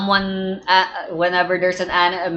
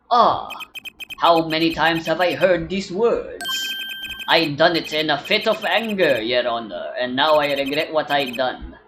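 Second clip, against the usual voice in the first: put-on old judge voice. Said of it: "if I'm talking in this old man voice".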